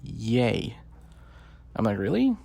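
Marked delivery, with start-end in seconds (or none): 0.0-0.8 "yay" stretched out long in imitation; slow, lingering "yay" as a quote; drawn-out yay. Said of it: "people are like, No, no, no". 2.0-2.4 high-pitched, sceptical questioning leap; mock-astonished rising question; incredulous. Voices own disbelief at the excuse.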